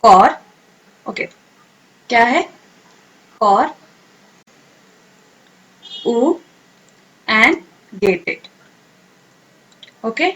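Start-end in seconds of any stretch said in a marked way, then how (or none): 0.0-8.4 corrugated split into कॉर, उ, गेटेड with pauses; syllable by syllable. Shown as a demonstration. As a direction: spell out the word in chunks for students to repeat. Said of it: "अब मेरे साथ आप बोलेंगे".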